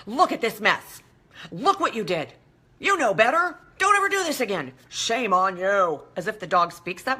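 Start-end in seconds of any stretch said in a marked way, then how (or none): 0.1-1.0 "Look at this mess." as a mild scold; a touch of a stern owner on "Look at this mess."; mock scolding. Owner rubbing the dog's nose in it, mild scold. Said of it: "all the while saying". 1.5-6.0 wag a finger at the dog, half-joking; scolding the dog. Retold or imitated. Owner scolding the dog for pooping on the rug, mock stern. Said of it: "all the while saying".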